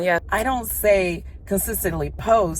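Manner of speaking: talking out of breath on an incline; breathless while walking uphill. Real, not acted. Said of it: "I'm a little bit out of breath".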